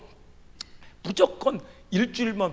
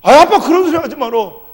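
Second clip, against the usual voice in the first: high, loud re-enacted outburst; angry protest; 8 semitones higher, 13 dB louder than usual. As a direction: shout dad down in exasperation. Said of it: "내가 막 화가 나는".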